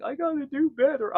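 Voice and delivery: put-on high, childlike whine; little kid voice. Crashed kid after a fall, high and childlike. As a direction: play the upset six-year-old.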